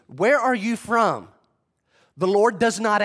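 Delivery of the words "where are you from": probing Pilate. Retold or imitated. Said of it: "He asks Jesus".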